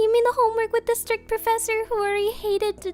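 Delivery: loud, high, frantic protest; panicked outburst. Acted. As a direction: blurt it out in rising panic. Panicked outraged reply to professor.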